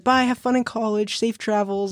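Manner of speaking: high, slow, sugary farewell in a lady's voice; sweet goodbye. Retold or imitated. Imitating the lady saying goodbye to the boys, high and slow. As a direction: drawl it out sweetly like a kind stranger. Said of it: "she's like".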